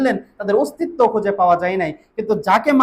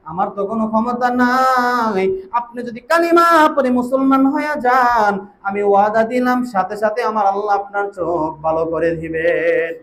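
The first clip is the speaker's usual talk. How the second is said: melodic preaching. Real, not acted. Melodic sermon storytelling.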